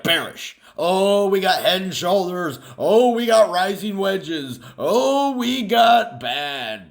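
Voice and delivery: shrill-free but squeaky mock panic, climbing high; mock alarmed traders. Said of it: "all the other people are like".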